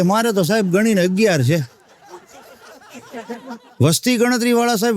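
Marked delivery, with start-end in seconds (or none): 0.0-1.8 put-on mild doting pride, as if announcing a long-awaited only child; proud and tender. A villager telling the census officer about his eleven children with gentle pride. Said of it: "એવા ટોનમાં બોલ્યો કે".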